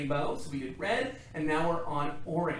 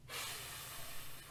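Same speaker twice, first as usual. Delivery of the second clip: dragon fire breath; 12 dB quieter than usual. Shown as a demonstration. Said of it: "So you're gonna go".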